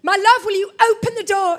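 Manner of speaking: wife locked in demanding husband open the door, angry; furious plea. Retold or imitated. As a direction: ask nicely through clenched anger. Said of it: "'Cause I'm just furious".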